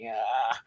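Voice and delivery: low, quiet "ah" of cringing; cringing groan. Retold or imitated. YouTuber hearing own accent while editing, cringing groan. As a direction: groan softly at the sound of yourself. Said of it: "it make me cringe often".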